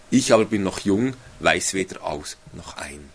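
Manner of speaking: measured, solemn reading of the verse; steady formal Bible reading; scripture reading. Acted. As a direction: read it like scripture from the pulpit. Reads Bible prayer aloud.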